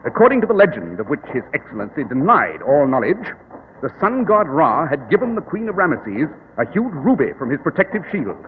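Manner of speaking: calm, superior detective explaining; Sherlock Holmes. Acted.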